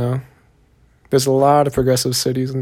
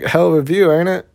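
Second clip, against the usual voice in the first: put-on Southern accent; 4 semitones higher, 3 dB louder than usual. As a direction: toss it out with a Southern twang. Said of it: "Southern accent".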